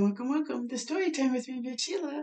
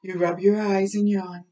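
storybook reading; 2 semitones lower, slower than usual. Acted. Reads picture book aloud.

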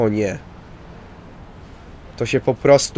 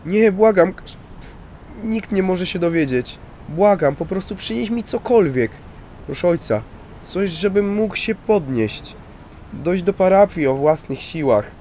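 a desperate priest begging, voice raised high; pleading priest; 7 semitones higher than usual. Acted. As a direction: beg the officer not to tell anyone, priest pleading high and urgent. Priest begging not to call ambulance.

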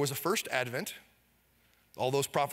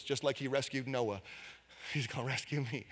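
soft personal repeat; 4 semitones lower, 7 dB quieter than usual. Acted. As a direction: drop to a soft, intimate voice. Repeats the line softly, personally.

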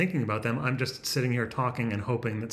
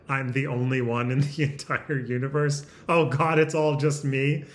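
mock panic. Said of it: "the part where it's like".

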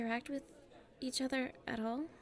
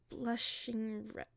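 flustered; much slower than usual. Acted. Flustered confession.

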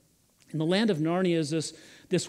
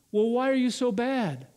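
lightly voiced girl, higher-pitched question; a hint of a puzzled child, pitched up; questioning young girl; 7 semitones higher, 3 dB louder than usual. Lucy questions the tearful faun, lightly voiced puzzled girl.

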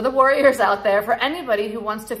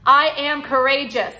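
rising affirmation; 3 semitones higher, 4 dB louder than usual. Shown as a demonstration. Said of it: "Say it with me".

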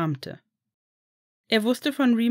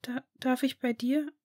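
put-on higher, hesitant child's voice, stammering in disbelief; disbelieving boy; 5 semitones higher, 4 dB quieter than usual. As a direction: ask as if afraid to hope. Sleepy boy asks. (höhere, zögernde Kinderstimme, ungläubig)

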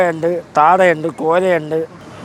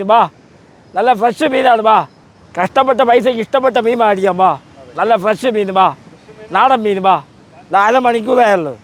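sharp piercing fish seller; 3 semitones higher than usual. Real, not acted. Fish seller calling to buyers.

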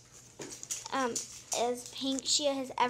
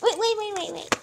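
urgent calling out; 4 semitones higher than usual. Real, not acted. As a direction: call out to stop her fast. Stopping sister mid-unboxing.

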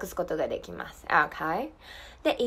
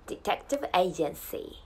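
careful model phrase; 3 semitones lower, slower than usual. Shown as a demonstration. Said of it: "これこのままですね。".

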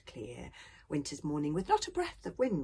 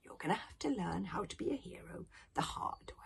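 a hint of a lecturing elder; lightly voiced old grandfather; 4 semitones higher, 5 dB louder than usual. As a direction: lightly play grandfather giving frank advice.

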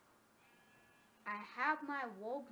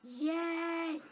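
loud triumphant yes; real burst of triumph; cheer; 6 semitones higher, 9 dB louder than usual. Real, not acted. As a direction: punch it out like you just won. Success cheer in game.

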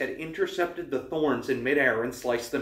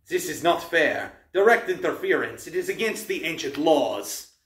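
put-on accented, indignant monster protest; wailing monster; 3 semitones higher, 3 dB louder than usual. A narrator's reading. Manticore protests the archers' interference, wailing. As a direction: wail the complaint, pushed up and louder. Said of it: "The monster wailed".

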